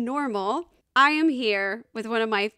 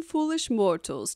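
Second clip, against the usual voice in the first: spooky voice; 2 semitones lower than usual. Acted. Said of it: "where you hear my spooky voice".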